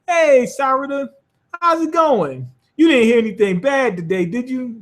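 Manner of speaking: high, breezy fake innocence; acting innocent. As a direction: pretend nothing happened, way up high. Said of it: "acting like as if nothing existed".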